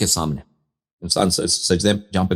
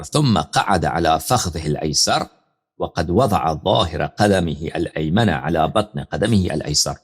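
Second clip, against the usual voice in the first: slow, measured recitation of the hadith; teacher reciting the hadith slowly before explaining it; slow Arabic text reading; 2 semitones lower, slower than usual. Acted. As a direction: read the Arabic slowly and deliberately, word by word.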